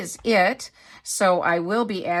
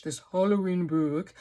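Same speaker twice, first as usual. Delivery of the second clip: mock British "Halloween book"; British accent. Shown as a demonstration. Mocking her own reading for viewers, British accent. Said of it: "I was sounding so British".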